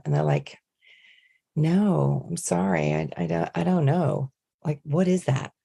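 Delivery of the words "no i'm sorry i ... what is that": put-on baffled American accent; LA coffee shop worker. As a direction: imitate a clueless American server. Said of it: "being in L A".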